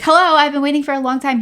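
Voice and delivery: imitating snapping at the delivery guy; retelling how she scolded the store worker; a little nasty. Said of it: "I was a little nasty to him".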